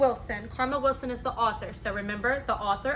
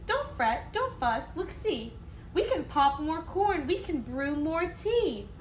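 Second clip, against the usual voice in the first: squeaky mouse; 3 semitones higher than usual. Acted. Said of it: "Mouse squeaks".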